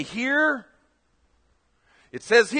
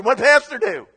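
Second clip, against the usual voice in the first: the same gossip question with more push; mock gossip, pushed harder; 4 dB louder than usual. Gossip spreading through the congregation, a touch more insistent. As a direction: repeat it as a nosier churchgoer. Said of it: "everybody goes".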